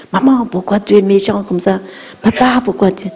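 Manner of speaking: half-acted child complaining to parents; whiny child reproach. Shown as a demonstration. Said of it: "On ne dit pas". (enfant qui reproche, un peu plus aigu)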